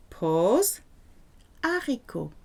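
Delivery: a clear gap, then haricot with no H; pause before haricot. Shown as a demonstration. Teacher showing the pause before haricot. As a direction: stop after le, then say haricot. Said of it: "You have to say le".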